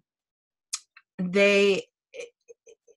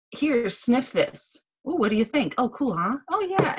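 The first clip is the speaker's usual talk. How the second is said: higher, lilting mock sales chat; playful sales demo; 5 semitones higher than usual. Seller letting a customer sniff a sample, playfully eager. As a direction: act out an eager little product pitch. Acts out showing product to customer.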